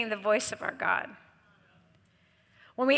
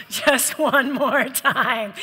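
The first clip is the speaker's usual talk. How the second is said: slow, coaxing voice of temptation; slow tempting accuser; much slower than usual. Retold or imitated. The accuser luring an addict, slow and coaxing. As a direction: draw it out, luring them in. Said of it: "the accuser".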